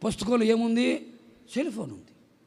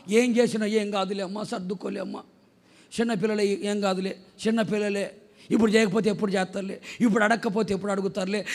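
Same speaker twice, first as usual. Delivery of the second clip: imitated indulgent parent; 4 dB quieter than usual. Parents excusing their small child, lightly imitated placating tone. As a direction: brush it off gently, making allowances. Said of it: "అని సర్దుకుంటూ".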